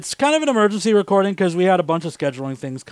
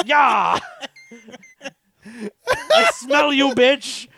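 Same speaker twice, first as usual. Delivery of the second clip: high squeaky cat taunting, laughing; 11 semitones higher, much slower than usual. Acted. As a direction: play the angry cat, high and gleeful. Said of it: "It's like".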